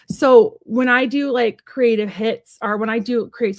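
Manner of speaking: stumbling, restarting mid-phrase; slow, halting search for the word; fumbling for words. Real, not acted. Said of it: "sorry, I'm stumbling on my words".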